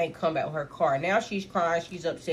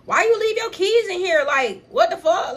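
high, laughing through the words; laughing excuse; 11 semitones higher, 4 dB louder than usual. Retold or imitated. Friends laughing as they explain to upset girl, high laughing voice. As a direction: answer her while cracking up. Group laughing while answering her.

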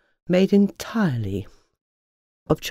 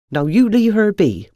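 protective hen; 5 semitones higher, 5 dB louder than usual. A narrator's reading. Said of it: "said Henrietta".

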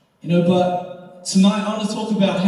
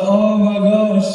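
mock dismay; 3 semitones higher, 3 dB louder, slower than usual. Mortified as everyone jeers.

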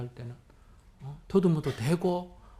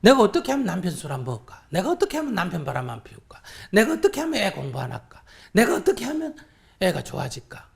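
mock anxious pleading; 6 dB louder, faster than usual. Mocking the mother's anxious questions.

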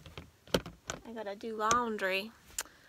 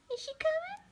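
whisper; faster than usual. Real, not acted. Asking the dog softly.

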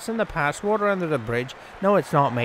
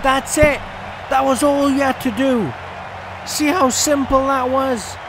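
sarcastic scolding; 8 semitones higher than usual. Real, not acted. Scolding fielder after catch.

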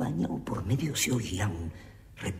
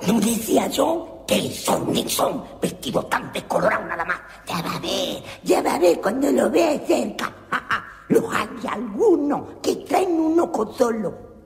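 voz de personaje gritón; 11 dB louder than usual. Acted. El Sofá describe a los ingleses.

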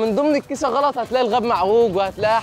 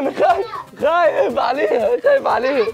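anxious cry; 5 semitones higher than usual. Real, not acted. Fretting as kite dives.

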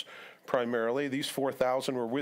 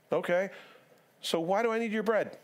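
higher, pointed rhetorical question; mock exasperation; 6 semitones higher than usual. Jesus concluding his quiz with disciples, exasperated. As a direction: drive the obvious point home.

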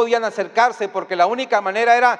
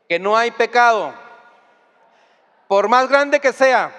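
preaching emphasis; 4 semitones higher, 5 dB louder than usual. Real, not acted. Preacher builds to climax.

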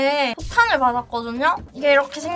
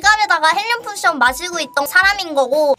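helium voice; 3 semitones higher than usual. Real, not acted. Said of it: "헬륨 좀 마셔야 돼서".

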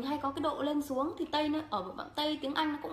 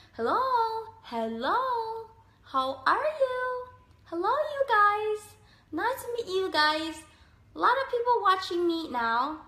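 big swooping English tune, much higher and louder; rising falling intonation; 7 semitones higher, 5 dB louder, slower than usual. Shown as a demonstration. Vlogger demos lively English intonation for viewers. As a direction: bounce the pitch up and down like a heartbeat. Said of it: "có cái độ lên xuống giống như kiểu nhịp tim ấy".

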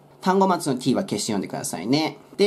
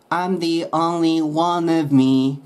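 "of" tucked in light and quick, "one" leaned on; slow read, "one of" linked; "of" unstressed; 3 semitones higher, much slower than usual. Shown as a demonstration. Teacher showing weak "of" in a slow demo. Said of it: "of 目立たせず".

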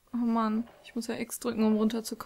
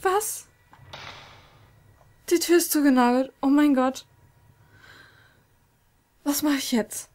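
panicked shout; 5 semitones higher, 9 dB louder than usual. Real, not acted. Door nailed shut, panic.

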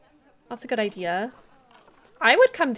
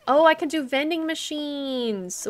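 gasped realization; 5 semitones higher than usual. Real, not acted. Idea for vending machines.

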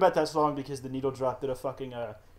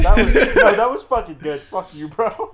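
loud protest; 5 semitones higher, 13 dB louder than usual. Real, not acted. Loud protest defending the movie.

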